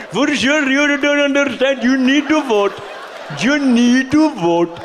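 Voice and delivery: lightly hammed-up urging to vote; mock pleading. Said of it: "continuing the impression".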